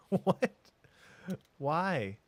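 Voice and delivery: a high, loud, disbelieving What?; startled, outraged outburst; exasperated surprise. Real, not acted. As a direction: cry out in disbelief at the game. Exasperated at game routing.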